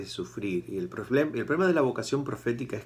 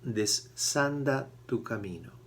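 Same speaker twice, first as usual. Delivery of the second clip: slow command; 2 semitones higher, slower than usual. Retold or imitated. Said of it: "Dios le dice a Elías".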